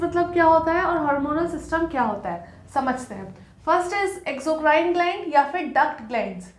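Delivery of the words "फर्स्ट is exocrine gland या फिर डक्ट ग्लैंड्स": slow and spaced out for note-taking; slow dictation pace for notes. Shown as a demonstration. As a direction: dictate each word clearly so students can write. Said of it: "कौन सी?".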